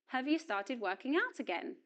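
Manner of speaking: "Have" unstressed, with a reduced schwa vowel; weak form of have. Shown as a demonstration. Teacher repeats the question for learners, weak "Have". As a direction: glide lightly over "Have" into the question. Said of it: "auxiliary verb have does not receive stress".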